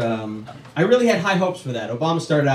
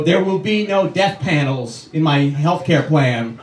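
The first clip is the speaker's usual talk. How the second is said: mock president. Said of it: "he had to go".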